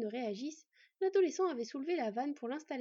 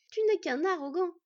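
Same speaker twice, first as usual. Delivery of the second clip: quarrelsome retort, higher and louder; angry retort; 7 semitones higher, 9 dB louder than usual. Acted. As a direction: throw the accusation at your brother. Quarrel between two brothers. (réplique de dispute, agacée)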